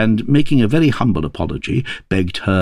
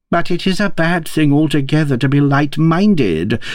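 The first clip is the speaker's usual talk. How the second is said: high, heated retort; mildly acted rising temper, pitched high; losing her temper; 8 semitones higher than usual. A narrator's reading. Queen retorts to the King, temper fraying. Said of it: "who was beginning to lose her temper".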